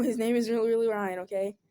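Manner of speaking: loud, emphatic repeat; mock-alarmed loud correction. Shown as a demonstration. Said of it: "Oh no".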